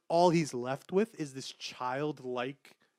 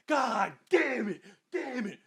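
high, drawn-out mock despair with a laugh; frustrated cursing; 7 semitones higher than usual. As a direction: groan it like a ruined experiment. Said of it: "Smashes his head on the fucking table".

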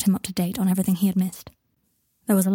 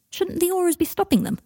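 heated, high-pitched challenge; hot indignation; 10 semitones higher than usual. A narrator's reading. Harry challenging Ron over the vigilantes, hotly. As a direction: demand it, indignant but not shouted. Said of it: "asked Harry hotly".

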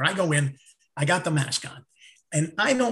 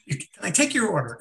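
laughing quote; faster than usual. Retold or imitated. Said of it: "he's going like".

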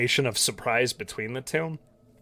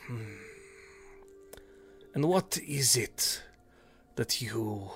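lightly voiced Naga; 4 dB quieter than usual.

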